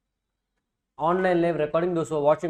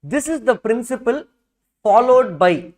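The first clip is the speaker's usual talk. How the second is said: dictating; 3 semitones higher than usual. Shown as a demonstration. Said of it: "I am also going to dictate from the book".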